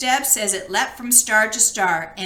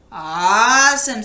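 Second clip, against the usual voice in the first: impressed; 5 dB louder, slower than usual. Acted. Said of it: "said Gork".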